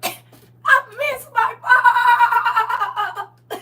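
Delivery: high, loud, very slow, whiny, laughing; high squeaky piglet. Retold or imitated. Scene: quoting the piglet from Babe, high, slow and whiny. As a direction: stretch it out like a sad little pig.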